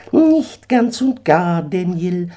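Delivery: a proud eagle laying down terms; haughty eagle. Acted. Eagle urges Daniel off the sinking stone, high and haughty.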